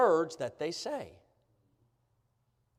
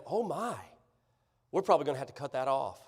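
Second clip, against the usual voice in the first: mock alarm; 5 semitones lower, 6 dB quieter, faster than usual. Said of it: "and I'd say to them".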